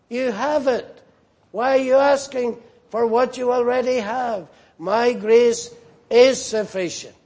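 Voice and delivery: a hint of God scolding the minister; rebuking. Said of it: "and rebuked him".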